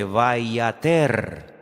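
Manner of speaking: VAYATER with an E in the last syllable; Vayater, the vowel changed to E; Hebrew pronunciation demo. Shown as a demonstration. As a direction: say Vayater slowly, ending in -ter. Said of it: "se pronuncia de una forma diferente".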